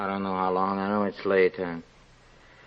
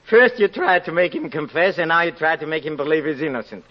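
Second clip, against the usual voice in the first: mocking laugh; 2 semitones higher, faster than usual.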